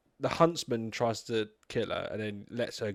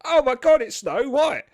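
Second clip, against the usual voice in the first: higher, louder gasp of mock amazement; mock awe; 11 semitones higher, 8 dB louder than usual. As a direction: play the crowd recognising her. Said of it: "they all look at her like".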